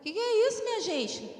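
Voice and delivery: high-pitched, puzzled exclamation; mock bafflement. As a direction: react as if utterly baffled. Sick man baffled by her crying.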